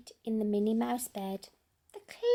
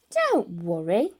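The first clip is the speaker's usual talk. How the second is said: reassuring peep; 4 semitones lower, 4 dB louder than usual. Acted. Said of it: "Mouse peeped".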